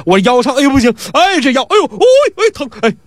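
moaning over his aching back; hammed-up groaning. Pi Wu moans at Jin about his back, hammed-up. Pi Wu keeps faking pain.

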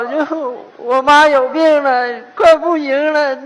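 mock-tearful plea, drawn out; tearful pleading. Nephew begging uncle to come to his dying mother, tearful. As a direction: wail the news out slowly.

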